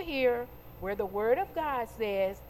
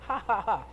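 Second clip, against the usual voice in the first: triumphant laugh; 3 semitones lower, faster than usual. Acted. Mock laugh at Satan.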